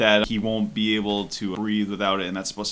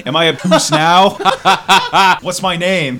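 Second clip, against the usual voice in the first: loud yelling; 7 semitones higher, 9 dB louder than usual. Acted. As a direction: roar it at the prisoner. Shawshank quote acted loudly.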